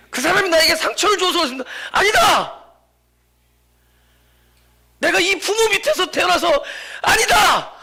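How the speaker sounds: high, loud emphatic sermon delivery; preaching at full force. Acted. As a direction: cry out each denial forcefully, dropping on the tags. (힘껏 외치는 설교조)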